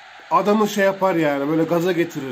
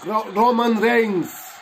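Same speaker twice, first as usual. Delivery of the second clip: drawn-out, raised wrestler introduction; ring announcer; 4 semitones higher, much slower than usual. Pretend. Gamer introduces his chosen wrestler, mock announcer call. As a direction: stretch the name out like a ring announcer.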